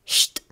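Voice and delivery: "sht" as one consonant cluster. Shown as a demonstration. Teacher giving the sound of initial ST, bare "sht". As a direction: say just "sht", no vowel. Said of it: "we pronounce it like".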